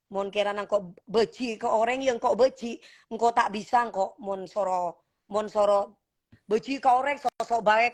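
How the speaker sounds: put-on speaking in a Madurese accent and dialect; Madurese-flavoured speech. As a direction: slip into her Madurese roots. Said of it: "gue toronan Madura gue".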